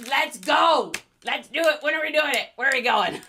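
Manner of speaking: loud, eager rallying; rally friends for a party right now; excited. Real, not acted. Eager to dress up.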